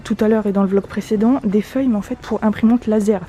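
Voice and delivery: muffled behind a mask; speaking through a mask; through a face mask. Real, not acted. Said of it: "J'espère que vous m'entendez bien avec le masque".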